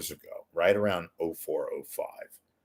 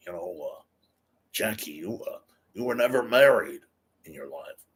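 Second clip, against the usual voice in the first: Johnny Carson. Acted. Talk-show host asking his comedian guest about marriage, lightly imitated. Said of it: "that was my Johnny Carson impression".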